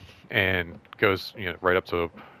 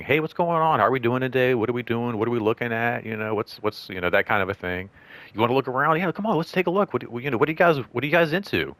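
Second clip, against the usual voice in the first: casual warm welcome; 2 semitones higher than usual. Shown as a demonstration. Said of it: "very warm person with whoever I'm engaging".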